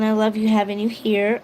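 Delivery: normal talking voice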